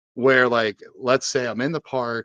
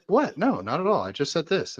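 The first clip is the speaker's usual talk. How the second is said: put-on confused girlfriend; 7 semitones higher than usual. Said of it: "she'll be like".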